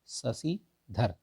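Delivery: drawn-out शशिधर for the class; slow drawn-out शशिधर. Shown as a demonstration. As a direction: say शशिधर slowly, stretching शशि. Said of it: "अगर यहाँ पे होता शशिधर".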